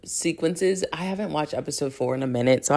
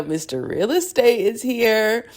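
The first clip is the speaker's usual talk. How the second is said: slower, higher, hammed-up Russian accent; 5 semitones higher than usual. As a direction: lean into a bad Russian accent. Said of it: "my Russian accent is trash".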